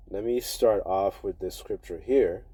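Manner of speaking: speaking with a numb mouth; words a bit slurred from numbness. Real, not acted. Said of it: "my mouth is kinda numb".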